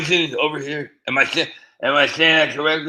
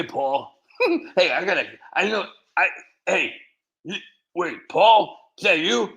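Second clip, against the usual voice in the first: higher, excited greeting with laughs; delighted surprise; 7 semitones higher, 3 dB louder than usual. Real, not acted. Surprised to spot a viewer.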